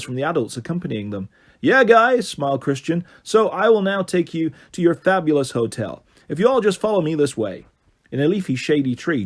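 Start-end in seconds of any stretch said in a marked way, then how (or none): 1.6-7.7 tour guide voice. Acted. Christian greets group.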